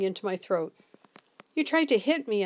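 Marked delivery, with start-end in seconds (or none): 1.5-2.4 breathless shock, pitched higher; gasped. Acted. Boy, just missed by the bottle, gasps in fright. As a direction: gasp it out, rattled by the near miss. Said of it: "I gasped".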